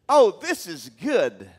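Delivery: loud, bright delighted cry; delighted exclaim. Pretend. Woman answering Jesus with a loud delighted cry. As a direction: burst out in delight.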